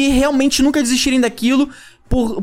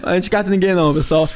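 laughing; faster than usual. Real, not acted. Joking about discarding a guest.

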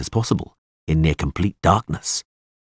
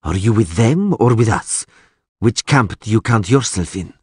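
mild sneering question; lightly scornful elf; 3 semitones higher than usual. Acted. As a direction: press him with a touch of scorn. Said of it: "asked the elf sneeringly".

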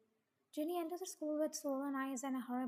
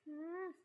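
higher questioning "hmm"; sleepy groan; 4 semitones higher, 3 dB quieter than usual. A narrator's reading. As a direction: groan as if just woken. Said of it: "I groaned as I heard".

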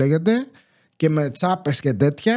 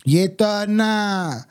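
very slow, stretched single call of the word; drawn-out call; much slower than usual. Retold or imitated. Old neighbor hailing the narrator about the rubbish, drawn out. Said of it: "και μου έλεγε".

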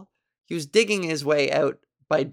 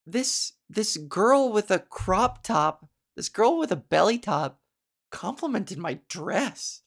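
imitated disapproving woman; 3 semitones higher, slower than usual. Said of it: "And the way she said it".

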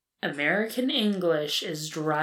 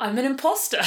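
laughing. Acted. Laughing confession.

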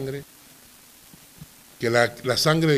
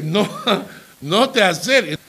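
laughing through a quote; 4 semitones higher than usual. Retold or imitated. Retold warning, laughing.

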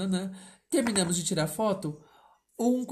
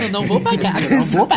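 teasing; 2 semitones higher, 10 dB louder, faster than usual. Pretend. Teasing about an unpaid Pix.

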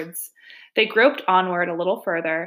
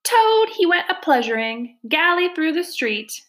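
squeaky little weasel, pitched way up; high squeaky voice; 9 semitones higher than usual. A narrator's reading. Chief Weasel starts his song about Toad, high squeaky voice. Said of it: "began in a high, squeaky voice".

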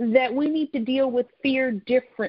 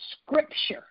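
whispered; 4 dB quieter than usual. Real, not acted. Pastor to congregation, a sudden whisper. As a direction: whisper the word Scripture. Trailing aside in the sermon.

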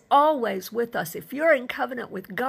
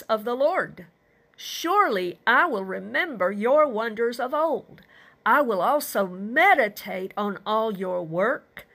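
emphatic scripture reading. Acted. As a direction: declare the psalmist's praise with weighty emphasis. Reads the psalm's declaration of praise.

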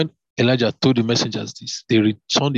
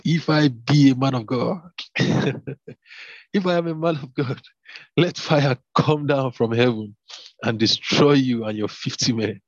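a touch of a bold prophet proclaiming; man of God; 3 semitones higher than usual. Acted. Prophet Elijah answering the captain, proclaiming with authority. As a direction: call down fire with a lightly voiced prophet's authority. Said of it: "these terms that these men of God use".

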